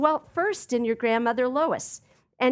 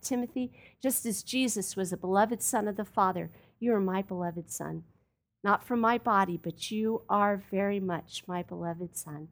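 tender; 4 semitones lower, 5 dB quieter than usual. Retold or imitated. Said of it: "he speaks to Timothy tenderly".

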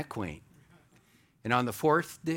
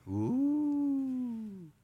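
awed ooh; 10 semitones higher, 4 dB quieter than usual. Real, not acted. Awed exclamation after verse.

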